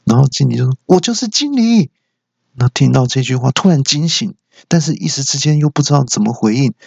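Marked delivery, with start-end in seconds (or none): 0.9-1.9 boss reveal. Acted.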